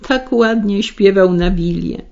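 ordinary delivery

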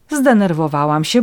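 ordinary delivery

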